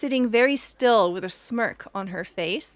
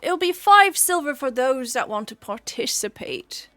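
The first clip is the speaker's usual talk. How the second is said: loud orc hostess announcing the entry fee; hearty innkeeper addressing the group; orc contest host; 3 semitones higher, 5 dB louder than usual. Acted. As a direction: call it out to all the contestants. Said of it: "she says to each one of you".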